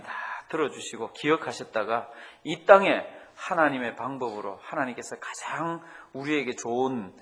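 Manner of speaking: earnest, steady prayer voice; closing prayer. Real, not acted. Pastor leading the congregation in closing prayer, earnest. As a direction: pray for the church sincerely.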